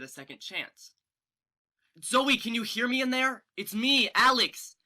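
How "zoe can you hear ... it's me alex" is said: louder, pleading call inward; loud pleading call to a friend. Acted. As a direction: call through to someone trapped inside. Calling to friend inside body.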